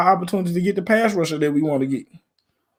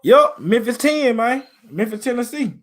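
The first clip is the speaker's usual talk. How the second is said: Memphis accent; 6 semitones higher than usual. Real, not acted. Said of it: "Y'all can't hear the accent?".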